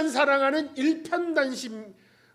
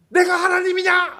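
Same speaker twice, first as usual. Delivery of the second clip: louder, higher, stress on 내가; irritated retort; 9 semitones higher, 8 dB louder than usual. Retold or imitated. Jacob snapping at Rachel, stress on 내가. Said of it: "막 승질이 나".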